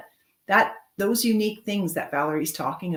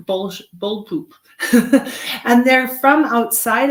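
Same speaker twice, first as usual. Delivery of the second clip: laughing; 5 semitones higher, 7 dB louder than usual. Real, not acted. Laughs at own rude joke.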